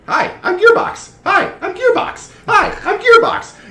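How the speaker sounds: very high, loud, slow character voice; Gearbox. Acted. Odd sphere creature introduces itself, high repetitive greeting. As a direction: chirp the same greeting mechanically each time.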